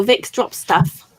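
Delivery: slow and careful. Shown as a demonstration. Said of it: "Is that what it's called, Bill?".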